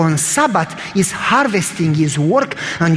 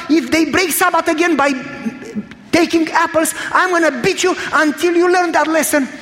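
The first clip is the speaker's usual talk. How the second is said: mock pained scream; 8 semitones higher than usual. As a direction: howl it like a staged beating. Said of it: "And he's screaming".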